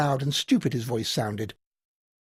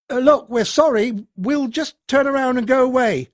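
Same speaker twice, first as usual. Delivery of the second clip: higher, hurried apology; nervous pleading; 8 semitones higher, 4 dB louder than usual. A narrator's reading. Keith begging the unseen voice, high and frightened. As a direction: talk your way out, scared.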